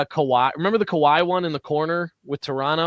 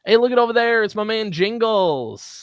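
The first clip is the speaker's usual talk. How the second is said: put-on playful Australian accent, louder and higher, slowed down; Aussie accent; 7 semitones higher, 4 dB louder than usual. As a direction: call out to Jingles like an Aussie mate. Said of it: "Did you gotta say it in an Aussie accent?".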